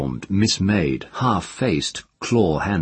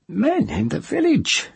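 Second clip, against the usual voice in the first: dramatic whisper. A narrator's reading. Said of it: "the old woman whispered dramatically".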